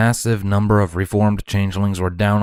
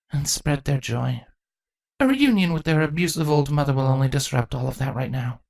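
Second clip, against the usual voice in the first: small smile; 7 semitones higher than usual. A narrator's reading. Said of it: "Chrysalis replied with a small smile".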